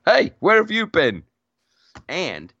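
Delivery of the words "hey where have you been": playful mock English accent, a bit louder; Peter Mayhew English accent. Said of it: "talking with this English accent".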